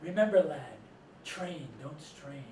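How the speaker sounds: put-on light Welsh-accented coach, slowing at the end; a hint of Welsh accent, dropping low to finish; Cy Beachy. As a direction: imitate a Welsh coach giving measured advice. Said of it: "saying in his Welsh accent".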